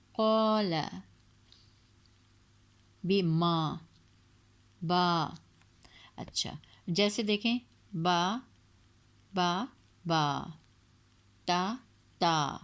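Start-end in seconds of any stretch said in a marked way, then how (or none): 0.1-5.3 قال, بما, با each held two beats; stretched recitation. Shown as a demonstration. Teacher modelling lengthened alif in Quran words. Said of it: "قاف کو کھینچا ہے". 7.9-12.6 با and تا held long and slow; slow stretched drill. Shown as a demonstration. Teacher drilling long vowels slowly for students. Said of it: "دو حرکت کے برابر".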